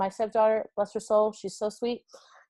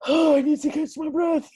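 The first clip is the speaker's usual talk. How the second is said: louder, laughing and catching breath; 7 semitones higher, 6 dB louder than usual. Real, not acted. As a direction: gasp it out through laughter. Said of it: "I'm, like, losing my breath".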